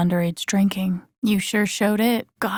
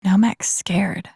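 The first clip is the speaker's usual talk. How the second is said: breathy scared whisper, slowing at the end; tense whisper; slower than usual. Acted. She whispers to herself, scared for Mac, tense whisper. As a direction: hush it so nothing hears you. Tense moment, hiding from danger.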